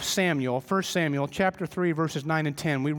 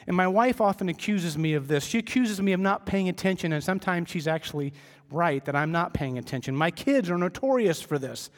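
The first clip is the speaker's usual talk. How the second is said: usual speaking voice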